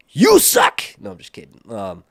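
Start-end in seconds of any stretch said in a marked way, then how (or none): 0.1-0.8 mock yell. Mock insult to chat.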